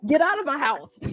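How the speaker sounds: high, laughing "go away"; laughing dismissal. Retold or imitated. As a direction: shoo him off while laughing. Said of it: "She's like".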